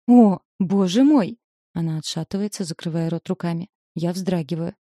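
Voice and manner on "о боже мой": slow, louder horrified exclamation; shocked gasp. A narrator's reading. Mother seeing the body in the trunk, horrified. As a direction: recoil at the sight.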